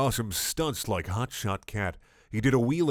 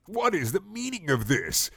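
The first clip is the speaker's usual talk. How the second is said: higher, indignant protest; a lightly voiced outraged council; 8 semitones higher than usual. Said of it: "cried the Citadel Council in protest".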